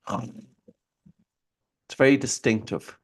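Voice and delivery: snoring through an open mouth; mouth snore. Shown as a demonstration. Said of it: "it will go something like this".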